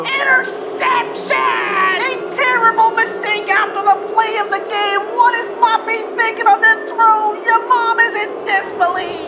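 excited sports commentator calling the game; football broadcast voice; play-by-play announcer. Acted. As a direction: call the drama live, building to big exclamations.

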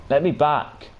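pleading yell, pitched high and loud, punching me; angry yell. Real, not acted. Gamer begging the game to let him recall, angry high yell. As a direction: yell it at the game in real frustration. Enemy blocks his recall.

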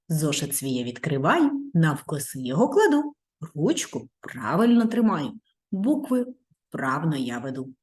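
rhythmic little poem; recited rhyme. Shown as a demonstration. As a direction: recite the rhyme as the children write. (ритмічний віршик для дітей)

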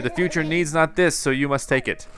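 a hint of a mystical merchant; lightly hammed-up cryptic trader; lightly voiced Sahara. Voices Sahara presenting finished room.

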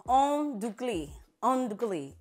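"en Duclis" slowed right down; slow "en Duclis" practice; practicing pronunciation. Shown as a demonstration. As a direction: drill "en Duclis" slowly. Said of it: "practicing how to say that name".

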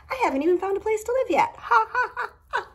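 laughs through it, rising high; amused at her own chaos, laughing. Real, not acted. Laughing to viewers about the unpacked move.

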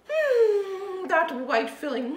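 chewing while talking; mouth full. Real, not acted. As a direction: talk through a mouthful. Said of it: "speaking with my mouth full".

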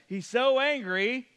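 milk the setup line for the audience; slow, hammed-up comedy setup; Johnny Carson setup. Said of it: "It's a Johnny Carson setup".

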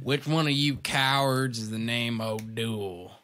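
gunslinger. Acted. Gunslinger enters the saloon.

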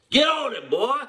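loud high call to get going; rallying shout. Real, not acted. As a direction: fire him up with a shout. Hyping up co-host Vel.

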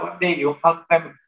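ordinary talk, nothing marked

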